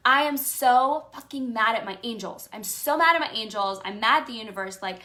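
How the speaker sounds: loud angry venting, reliving it; loud, upset rant about feeling betrayed; retold angry rant. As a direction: rant at the angels, fired up. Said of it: "And I was like".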